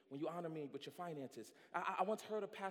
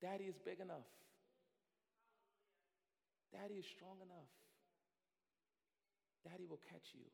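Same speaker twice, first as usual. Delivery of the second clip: reassuring God; 6 dB quieter than usual. Acted. God reassuring struggling believers, soft and tender. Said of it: "God is standing there ... saying".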